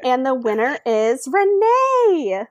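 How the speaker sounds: slow announcer build to the name; mock winner announcement. Announcing the challenge winner, mock announcer. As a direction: stretch out the winning name like a host.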